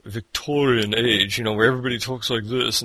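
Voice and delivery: put-on deliberately poor old-time British accent; bad Victorian British accent. Shown as a demonstration. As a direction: badly fake a Victorian English accent. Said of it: "that was the worst accent ever".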